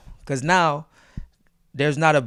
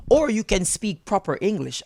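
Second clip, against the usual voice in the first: higher, proper Jamaican English accent; 5 semitones higher than usual. Shown as a demonstration. Showing the uncomfortable accent, proper Jamaican English. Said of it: "And when I speak like this".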